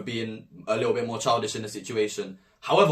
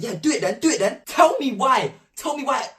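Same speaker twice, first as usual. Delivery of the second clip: cocky dare; 11 semitones higher, 4 dB louder than usual. Retold or imitated. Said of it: "I'm like".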